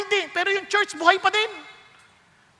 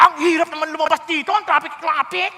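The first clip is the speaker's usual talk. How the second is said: grumbling churchgoer; 2 semitones lower than usual. Retold or imitated. Mimicking churchgoers complaining after ministry.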